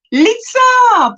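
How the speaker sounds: put-on high, loud call in an Afrikaans accent. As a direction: sing the name out with an Afrikaans accent. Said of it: "that's your Afrikaans accent".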